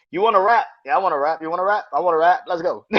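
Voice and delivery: high, loud mock-hype back and forth; hyped rappers. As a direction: play two stars egging each other on. Acting two rappers teaming up.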